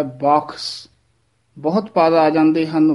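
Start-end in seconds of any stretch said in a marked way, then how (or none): 0.0-0.9 ਬਖਸ਼ with an aspirated kh and soft sh; ਬਖਸ਼ pronounced purely; correct pronunciation. Shown as a demonstration. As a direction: say ਬਖਸ਼ cleanly, kh breathy, ending in sh. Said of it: "ਸ਼ੁੱਧ ਬੋਲਣਾ ਹੈ".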